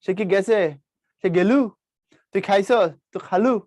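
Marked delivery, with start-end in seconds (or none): 1.2-2.9 গেলু said the Bogura way for গেছে; a lightly done Bogura accent. Shown as a demonstration. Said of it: "এরা হচ্ছে ওদের accent". 3.1-3.5 খালু said the Bogura way for খাইছস; a lightly done Bogura accent. Shown as a demonstration. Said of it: "এরা হচ্ছে ওদের accent".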